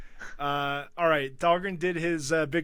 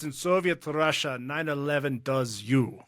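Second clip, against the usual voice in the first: put-on Russian accent. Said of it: "I just wanted to do a Russian accent".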